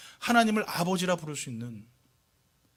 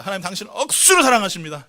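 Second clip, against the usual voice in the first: Gyeongsang dialect; 6 dB louder than usual. Shown as a demonstration. Preacher models a greeting for the congregation, Gyeongsang dialect. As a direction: hit 억수로 hard in Gyeongsang dialect. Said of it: "경상도 사투리는 한번 인사하게".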